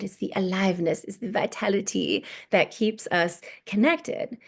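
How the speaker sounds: a light French accent imitation. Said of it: "in her cute little French accent".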